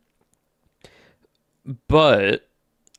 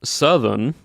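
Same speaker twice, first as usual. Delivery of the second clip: "Southern" said with a Southern twang; Southern-accent warm-up word. Shown as a demonstration. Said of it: "but actually in the Southern tense".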